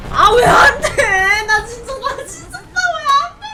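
high, loud tearful wailing; crying out at the stuck swing; frustrated whining. Real, not acted. Swing won't move, near tears. (울먹이며 짜증내는 외침)

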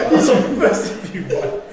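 laughing. Real, not acted. Host cracking up at answer.

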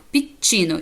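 «піччіно» with a held ch in the middle; «піччіно», c doubled and read as ch. Shown as a demonstration. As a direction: model «піччіно» clearly with a double ch. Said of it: "читається як".

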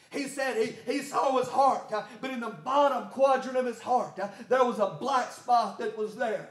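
rhythmic preaching cadence with gasped breaks; driven preaching. Real, not acted. Preacher to his church on seeing God, driven preaching. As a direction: preach it hard, punching out each phrase.

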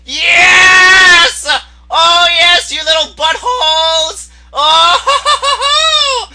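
loud, high victory yell; whooping celebration at the top of the voice; triumphant shouting. Real, not acted.

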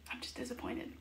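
hushed, breathy mock letdown; mock disappointment. Joking to late viewers, a whispered mock disappointment. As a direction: whisper it like a sulking parent. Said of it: "I'm joking".

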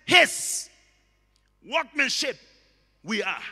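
loud, isolated "His" leading the phrase; stress on His. Shown as a demonstration. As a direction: hit "His" hard and let the rest fall away. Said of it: "In the same way".

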